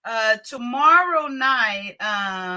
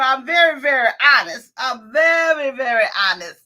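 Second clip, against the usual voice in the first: emphatic shout; 5 dB louder than usual. Real, not acted. Emphatic claim of honesty.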